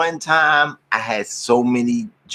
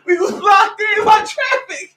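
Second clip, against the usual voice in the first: excited; slower than usual. Real, not acted. Excited retelling.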